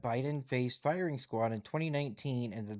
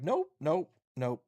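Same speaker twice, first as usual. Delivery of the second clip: mock refusal, first one higher and louder; retold firm refusal; 4 semitones higher, 5 dB louder, slower than usual. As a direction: imitate someone flatly turning it down. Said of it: "And was like".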